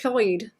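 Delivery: "Lloyd" begun with a hissed Welsh ll; "Lloyd" said the Welsh way, with a breathy ll. Shown as a demonstration. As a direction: push air past the sides of the tongue on "Lloyd". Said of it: "So Lloyd is pronounced".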